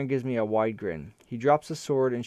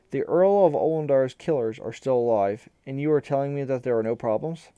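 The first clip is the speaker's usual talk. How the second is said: sharp, raised angry voice; angry ambassador; 3 semitones higher, 6 dB louder than usual. A narrator's reading. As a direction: demand it with barely held fury. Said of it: "the ambassador says furiously".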